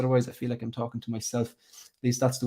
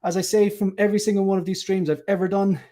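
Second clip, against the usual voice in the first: higher-pitched presenter's intro; show-opening welcome; 5 semitones higher than usual. Acted. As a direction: welcome the viewers in a lifted hosting voice. Presenter opens the live stream.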